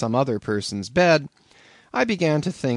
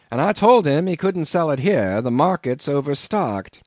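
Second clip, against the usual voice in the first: higher, louder smug innkeeper; calm landlord; 5 semitones higher, 5 dB louder than usual. A narrator's reading. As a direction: answer like it's obvious. Landlord replies.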